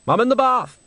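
high, haughty manager voice; Salzella voice. A narrator's reading. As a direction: call out from the bath, lofty. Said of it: "said Salzella".

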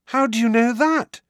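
high, loud amazement; astonished. A narrator's reading. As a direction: blurt the question in disbelief.

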